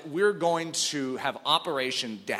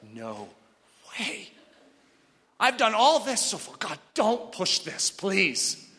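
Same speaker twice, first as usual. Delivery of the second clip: pleading protest; 5 semitones higher, slower than usual. Retold or imitated. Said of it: "my discussion with God's like".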